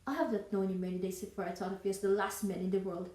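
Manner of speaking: firm, mildly indignant refusal; Elizabeth Bennet. Acted. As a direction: turn the proposal down for good, with contained disdain. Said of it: "Elizabeth Bennet rejected Darcy's proposal".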